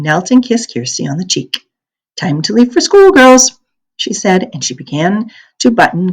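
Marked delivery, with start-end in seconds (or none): 2.2-3.6 a hint of laughter. A narrator's reading. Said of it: "Mama, still laughing".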